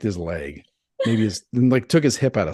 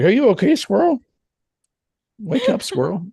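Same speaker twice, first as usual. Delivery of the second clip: mock cooing; 11 semitones higher, 3 dB louder than usual. Imitating gorilla cooing to squirrel.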